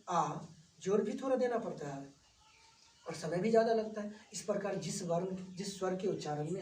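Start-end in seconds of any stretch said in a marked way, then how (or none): 0.1-0.4 आ held long and open, set against a short अ; long aa vowel. Shown as a demonstration. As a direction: stretch the vowel आ out like a teacher demonstrating. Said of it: "आप उच्चारण करके आप देख सकते हैं". (लंबा खिंचा हुआ आ)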